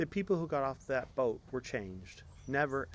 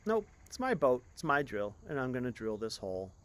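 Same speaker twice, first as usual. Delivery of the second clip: defiant refusal; 2 semitones higher, 6 dB louder than usual. Acted. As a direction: refuse him flatly and stubbornly.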